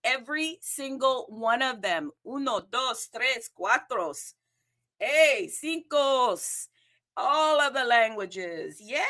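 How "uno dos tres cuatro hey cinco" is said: uno dos tres cuatro cinco counted out brightly; lively Spanish count; Spanish countdown. Shown as a demonstration. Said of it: "I even did a countdown in Espanol".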